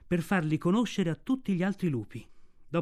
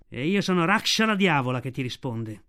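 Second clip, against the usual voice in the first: Raksha the she-wolf. Acted.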